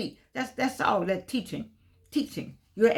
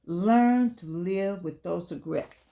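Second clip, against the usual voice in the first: slow emphatic reading; much slower than usual. Shown as a demonstration. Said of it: "It's a part of life".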